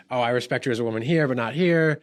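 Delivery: quick, lightly mocking singsong, rising on here; mocking half support. Mocking people who offer half support, in a light singsong. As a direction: toss it off like a hollow, insincere promise. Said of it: "where you're like".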